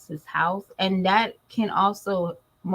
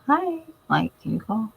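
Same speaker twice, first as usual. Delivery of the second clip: mock caller voice; 4 semitones higher than usual. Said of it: "Somebody's just like".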